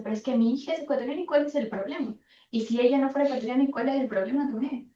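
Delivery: hurried retold protest, mildly heated; retold indignant father. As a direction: imitate an angry dad arguing back, fast. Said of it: "él enfurecido porque la rectora".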